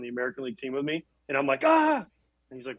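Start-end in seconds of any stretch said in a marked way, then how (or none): 1.6-2.0 high, loud mock shriek of alarm; mock scream. Retelling meeting his nemesis pitcher, a hammed-up shriek. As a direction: yelp as if terrified of him.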